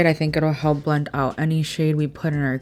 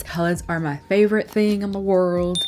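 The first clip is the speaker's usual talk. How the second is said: country accent. Real, not acted. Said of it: "I don't know why I sounded so country".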